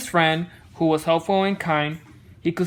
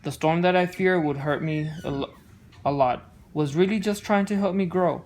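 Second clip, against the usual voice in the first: gentle rhyming read-aloud; storybook narration; 2 semitones lower than usual. A narrator's reading. Parent reading a picture book to child, gentle narration.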